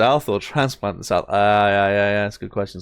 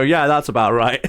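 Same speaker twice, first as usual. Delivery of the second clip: put-on nail a Southern accent, giggling; half-hearted Southern impression; mock Southern accent. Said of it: "we can nail it".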